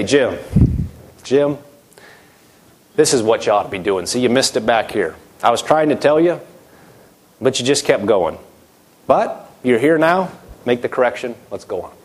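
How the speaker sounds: gentle God. Acted. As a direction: guide him back like a patient father. God gently correcting the preacher.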